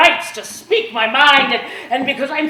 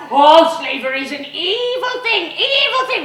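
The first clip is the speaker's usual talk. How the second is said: mocking abolitionist; 7 semitones higher, 4 dB louder than usual. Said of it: "they're gonna say to us".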